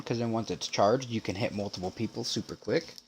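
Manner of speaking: chewing gum. Real, not acted. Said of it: "Sorry, I'm chewing gum".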